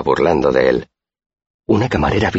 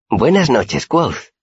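very high-pitched, dainty character greeting; Auri's voice; 9 semitones higher, much slower than usual. A narrator's reading. Tiny girl on the roof greets her friend, high voice.

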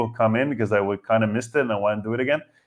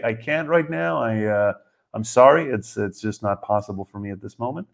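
calm refusal; 2 semitones lower than usual. Shown as a demonstration. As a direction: keep your voice down and decline gently. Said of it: "in a very calm manner".

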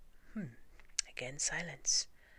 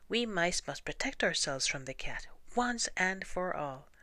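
proclaiming; 4 semitones higher, 3 dB louder than usual. Acted.

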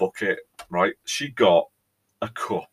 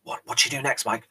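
eager viewers; 5 semitones higher, 4 dB louder than usual. Retold or imitated. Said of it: "I can hear you saying".

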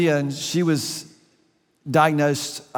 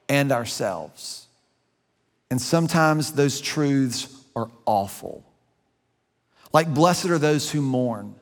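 reading aloud. Shown as a demonstration. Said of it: "I'm gonna read this to you".

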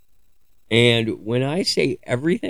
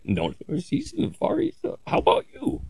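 higher, sing-song mock greeting that goes much higher into a breathy end; 5 dB quieter than usual. Teasing the villagers' greeting with a much higher mock voice. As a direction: parody a local giving directions as hello. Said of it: "they'd be like".

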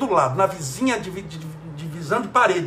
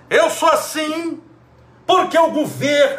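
mock blaming whine; 7 semitones higher, 4 dB louder than usual. Mocking people who blame others.

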